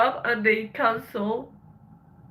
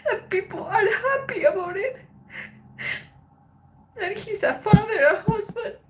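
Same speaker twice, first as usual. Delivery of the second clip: tearful outrage, fighting back sobs; crying; 6 semitones higher, 5 dB louder than usual. Real, not acted. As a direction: voice breaking into tears, pitched up. Upset about attack victim mocked online.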